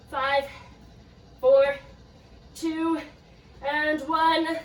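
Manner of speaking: hyped countdown. Real, not acted. Counting down the last seconds.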